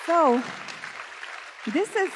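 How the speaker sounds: fighting back tears; real tears welling up, words held back; emotional. Real, not acted. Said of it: "I'm sorry, this is emotional".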